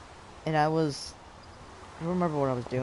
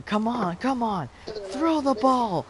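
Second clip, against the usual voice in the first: playful yell; 8 semitones higher than usual. Retold or imitated. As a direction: egg him on with a yell. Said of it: "And I'm going".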